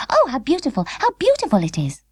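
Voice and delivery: high, enchanted doll sigh; a touch of wonder in a tiny voice; delighted little doll. Acted. Birdie delighted by music.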